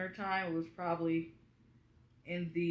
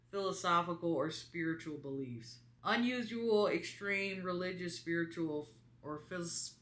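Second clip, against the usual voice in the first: reading a definition aloud. Real, not acted. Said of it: "It says".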